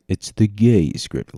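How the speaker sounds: trailer announcer. Pretend. Announcer joke.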